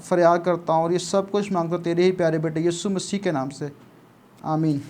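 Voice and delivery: hushed, low, even-toned prayer; soft, monotone plea addressed to God; spoken prayer. Real, not acted. Leads an opening prayer.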